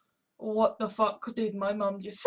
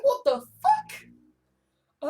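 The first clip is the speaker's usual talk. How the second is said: drawn out, much higher, slow disbelief; stunned what the fuck; 10 semitones higher, much slower than usual. Real, not acted. Baffled vlogger reacting to his own past, slow and high.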